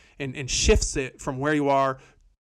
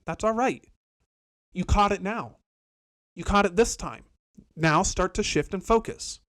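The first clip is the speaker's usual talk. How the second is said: higher, gentle forgiving tone to yourself; gracious self-talk; 3 semitones higher than usual. Retold or imitated. Forgiving herself after catching the mood, gently raised. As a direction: let yourself off the hook kindly. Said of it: "You have grace and you say".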